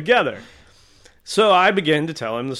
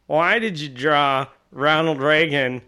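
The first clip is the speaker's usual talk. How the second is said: slow, drawn-out question; a hint of a big man's puzzled demand; lightly voiced Kingpin; slower than usual. Kingpin cosplayer confronting the artist, slow puzzled question.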